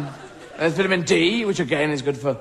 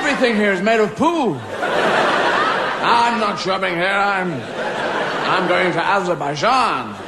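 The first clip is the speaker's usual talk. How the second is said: mimed shopper; 4 dB louder, slower than usual. Retold or imitated. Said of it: "I didn't need to mime it".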